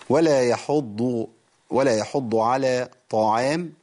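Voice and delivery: ولا يحض chanted slowly with a full heavy dhad in يحض; slow correct Quran recitation; correct recitation demo. Shown as a demonstration. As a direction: recite يحض with the emphatic dhad, not taa. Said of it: "يبقى أقول إيه؟".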